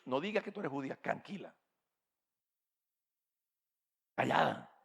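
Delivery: low, soft hush fading to a whisper; calm her secretly; hushed warning. Acted. Mordecai hushes Esther.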